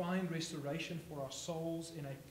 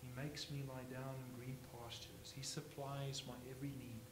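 softer, calm repeat of the verse; quiet and peaceful; 6 dB quieter than usual. Shown as a demonstration. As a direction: say it like resting by still water. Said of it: "It's quiet, it's peaceful".

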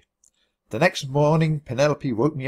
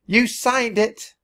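gloating; 9 semitones higher, much slower than usual. A narrator's reading. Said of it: "she shrieked".

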